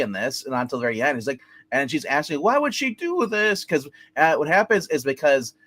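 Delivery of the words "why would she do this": high, drawn-out mock lament; high-pitched, slow retold plea; retold distraught wife. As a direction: imitate a wife asking in dismay.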